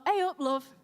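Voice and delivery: Yorkshire greeting; Leeds accent. Acted. Newcomer to Leeds greeting people, Yorkshire accent. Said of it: "when I moved to Leeds".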